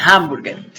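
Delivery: "Hamburger" with the H sounded like a Spanish jota. Shown as a demonstration. Teacher correcting the answer, "Hamburger" with H like J. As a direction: say "Hamburger" with an audible H. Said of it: "se asimila al de una J".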